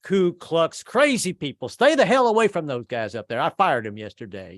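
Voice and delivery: put-on slow, gruff reluctant old farmer; lightly voiced slow old grandpa; grandfather. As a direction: warn him off like a grandpa. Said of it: "He's like".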